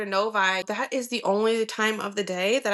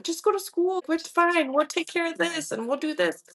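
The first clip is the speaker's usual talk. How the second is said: higher-pitched imitation of reassuring parents; acted parental reassurance; 7 semitones higher than usual. Parents telling college daughter not to worry, acted reassurance. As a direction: lift the voice, brushing worries aside.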